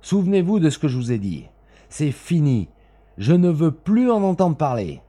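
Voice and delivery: loud, high, fast angry shout. A narrator's reading. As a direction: shout him down. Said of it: "cria l'autre". (crié avec colère)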